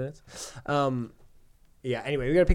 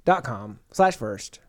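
promo voice. Acted. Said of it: "You have a great promo voice".

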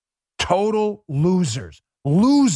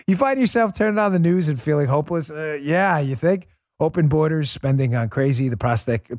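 lightly voiced upbeat ad read, a touch more pitch than his chat; sponsor ad read; 4 semitones lower than usual. Host reads a sponsor spot to his listeners, upbeat ad voice. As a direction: sell it like a friendly radio spot.

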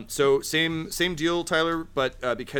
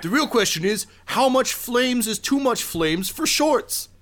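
high character voice; 13 semitones higher, 4 dB louder than usual. Acted.

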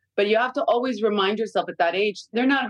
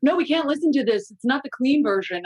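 higher mock prissy kid voice; prim child; 6 semitones higher than usual. Mother imitating kids objecting to a song. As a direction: play the rule-minded kid correcting an adult. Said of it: "Be like".

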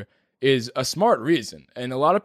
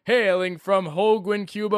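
ring announcer; 8 semitones higher than usual. Acted. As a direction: announce him like a prizefight entrant. Boxing-style fighter introduction.

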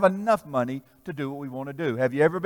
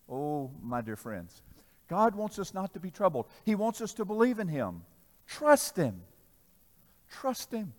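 tender appeal; 4 dB quieter than usual. Real, not acted.

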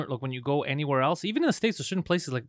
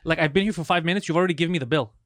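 retold rant; 3 semitones higher than usual. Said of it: "I'm getting really fucking upset".

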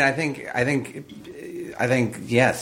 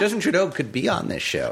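laughing; 8 semitones higher than usual. Real, not acted. Laughing about Trudeau being hot.

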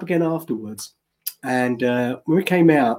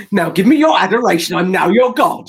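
mock grand demand; 4 dB louder than usual. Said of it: "full Hugh Grant".

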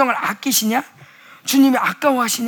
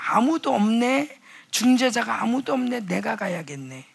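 gentle resolve; 6 dB quieter than usual. Acted. Voicing the Lord again.

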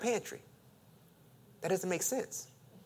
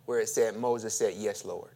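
quiet reading; 7 semitones lower, 5 dB quieter than usual. Shown as a demonstration. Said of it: "Can you go back there for me?".

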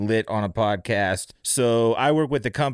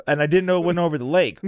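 faster and louder, emphatic retake; didn't said louder and faster with a shout; 4 semitones higher, faster than usual. Real, not acted. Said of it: "repeat, louder".

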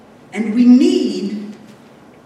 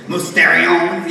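mock Italian accent; 5 semitones lower than usual. Shown as a demonstration. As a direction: say Mysterion with a mock Italian flourish. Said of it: "what you would yell if I said it with a very Italian accent".

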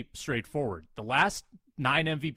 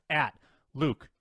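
winded, catching breath; talking while out of breath. Real, not acted. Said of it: "I'm out of breath".

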